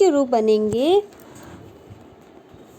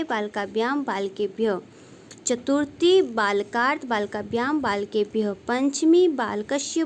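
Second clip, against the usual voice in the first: rhythmic rote recitation; 3 dB quieter than usual. Shown as a demonstration. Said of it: "तो कैसे समझेंगे हम इसको?".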